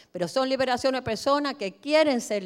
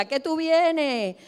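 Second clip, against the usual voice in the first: demon's cry; 5 semitones higher, slower than usual. Acted. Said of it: "empezó a dar gritos".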